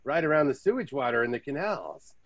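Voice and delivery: lightly hammed-up boastful tourist; mock pretentious. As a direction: parody a self-appointed expert telling travel tales. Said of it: "When you run into pretentious Americans".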